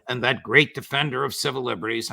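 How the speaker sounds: fast, mock praise with a sneer; sarcastic. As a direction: praise him while meaning the opposite. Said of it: "I'm being sarcastic".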